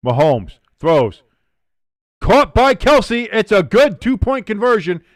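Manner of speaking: high, loud conversion call; excited call. Real, not acted. Streamer calling the Kelce catch, loud and high. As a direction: shout the catch.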